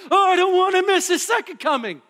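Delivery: high, loud eager cry; eager longing. Retold or imitated. Preacher voicing an eager believer, high and loud. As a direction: voice the longing of someone afraid to miss it.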